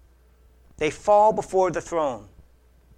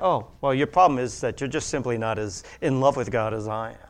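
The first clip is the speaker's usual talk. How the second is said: lower, haughty, condescending put-on; smug mock voice; 7 semitones lower than usual. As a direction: look down your nose at them. Smug superior worshipper mocked.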